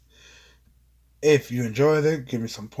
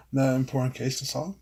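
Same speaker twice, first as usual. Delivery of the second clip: incredulous rising question; confused disbelief. Acted. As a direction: ask it like you can't believe it. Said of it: "Ryan looked at him confused".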